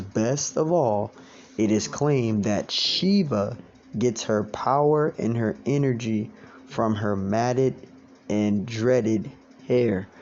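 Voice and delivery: slow, deliberate reading of the quote; read slowly. Shown as a demonstration. Teacher rereading the article slowly for doubting listeners. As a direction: lay each word out slowly for doubters. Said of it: "Let's read it slowly".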